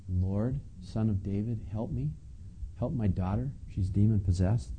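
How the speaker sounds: soft, hushed begging; quiet plea. Acted. A mother begging Jesus, who stays silent, hushed plea. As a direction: murmur the plea as if ignored. Plea retold softly, shut out.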